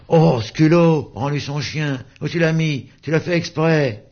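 put-on high, indignant children; protesting kids. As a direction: gang up on him. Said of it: "en protestant". (enfants indignés, voix aiguë)

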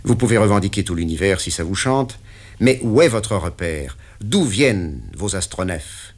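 the boss pinning down the deal; interrogating patron; stern boss. Acted. Patron presses.

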